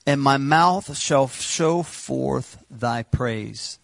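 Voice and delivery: very slow and measured reading of the verse; solemn scripture reading. Acted. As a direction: let every word land with weight.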